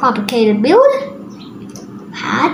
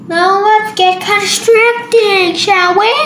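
slow, higher sing-song call to start; playful announcing; 4 semitones higher, 3 dB louder than usual. Pretend. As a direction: draw it out in a lilting sing-song. Cheerful sing-song launch into building.

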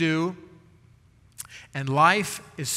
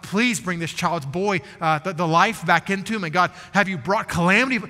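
mock crying out; 3 semitones higher, 4 dB louder than usual. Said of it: "see him crying out to God".

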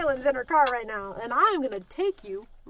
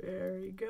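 breath out; 7 semitones lower, 12 dB quieter than usual. Shown as a demonstration. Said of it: "hold it".

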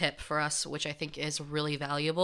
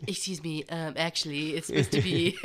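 mock pretentious. Imitating someone correcting grammar unasked, mock pretentious. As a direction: put on a mild know-it-all correction. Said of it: "so pretentious".

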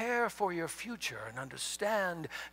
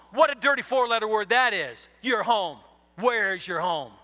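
getting mad; 3 semitones higher, 5 dB louder than usual. Real, not acted. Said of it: "Look at me getting mad at you now".

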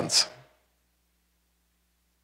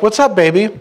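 higher, tender mom greeting; sweet mother; 5 semitones higher than usual. Retold or imitated. Mother answering her son's call, a tender greeting. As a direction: coo like a loving mother. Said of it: "She's like".

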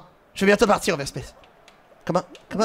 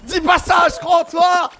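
encouraging shout; 7 semitones higher, slower than usual. Real, not acted. Cheering up a losing friend.

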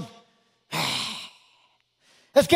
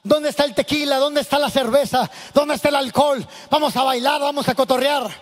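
arrogant party call. Retold or imitated. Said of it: "con aquella actitud prepotente y dije".

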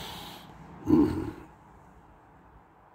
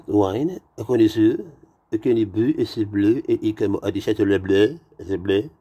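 raised, lilting fake French; mock French accent; 4 semitones higher, 4 dB louder than usual. Waiter presenting the wine, mock French accent. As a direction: imitate a French wine connoisseur's rising phrases.

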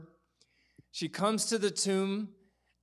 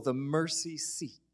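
hushed whisper; 3 semitones lower, 4 dB quieter than usual. Acted. Preacher to congregation, awed whisper. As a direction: whisper the mercy seat like a secret. Hushed reveal of the mercy seat.

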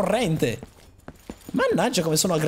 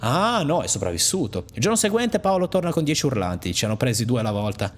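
low, grim telling of a massacre; lightly voiced angry woman recounting loss; bitter survivor; 7 semitones lower than usual. Player voicing the woman telling of her gang's slaughter, grim.

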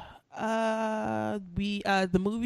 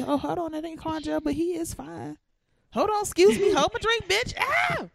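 high-pitched mock excitement, building to a squeal; hammed-up excited outburst; 10 semitones higher than usual. Acting out Kelly seeing he is fine, hammed-up excitement.

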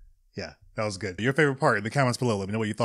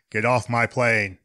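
Harrison Ford impression; slower than usual. Shown as a demonstration. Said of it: "no, it's not that good".

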